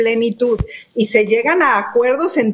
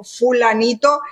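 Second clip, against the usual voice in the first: teasing joke; 3 semitones higher than usual. Retold or imitated. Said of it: "Yo se lo dije de broma".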